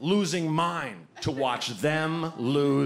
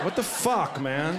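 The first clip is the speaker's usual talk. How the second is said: self-pitying mutter. Retold or imitated. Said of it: "he said to himself was so good".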